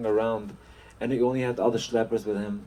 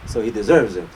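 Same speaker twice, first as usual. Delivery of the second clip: harsh justification; 6 dB louder, faster than usual. Acted. Landlord justifies the punishment.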